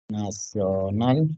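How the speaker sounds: NACIONAL stretched syllable by syllable; slow dictation. Real, not acted. Teacher writing Nacional for students, slow dictation. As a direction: draw out Nacional while writing it.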